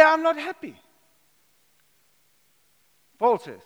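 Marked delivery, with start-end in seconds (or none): 0.0-0.8 mock grumbler. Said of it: "Grumble is just complaining".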